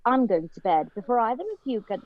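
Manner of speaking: Emma Watson's Harry Potter line in British English; measured, huffy British delivery, slowing onto the last word; British accent. Shown as a demonstration. Guest performs a Harry Potter line on request, British accent. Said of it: "say that one line from Harry Potter".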